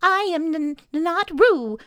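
loud protest. A narrator's reading. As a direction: insist loudly, stuttering on the denial. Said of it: "said Piglet loudly".

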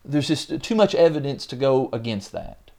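hammed-up Peter pressing his point; eager Peter insisting. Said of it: "he's also probably the kind that's like".

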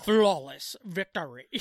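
slow deep announcer call; game announcer. Pretend. Mortal Kombat announcer quote.

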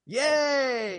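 a squealing high little cheer. Real, not acted. Host cheering the co-host's triple M's, with a squealing high cheer.

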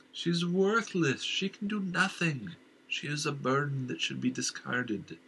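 slow, high, eerie scorn; uncanny voice full of contempt; contemptuous inner voice. Acted. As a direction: sneer at the worthless wife.

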